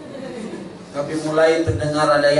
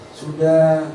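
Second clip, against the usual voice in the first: a soft, sly tempter's coax; lightly voiced devil luring Eve; hushed, wheedling serpent offering the fruit; devil tempting Eve; 3 dB quieter than usual. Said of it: "mau dipercepat oleh iblis".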